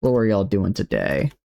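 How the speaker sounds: heavy Southern accent, gushing thanks; thick Southern accent. Shown as a demonstration. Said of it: "I'll bring out my accent here real, real thick".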